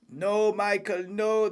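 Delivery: a hint of a desperate team boss; Toto Wolff imitation. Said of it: "Toto Wolff right now".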